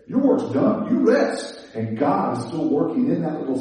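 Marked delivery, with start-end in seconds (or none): 0.1-1.6 laughing aside. Real, not acted. Joking aside about resting.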